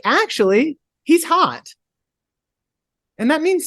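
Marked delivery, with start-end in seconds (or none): 0.0-1.7 mock swooning. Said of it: "she's like".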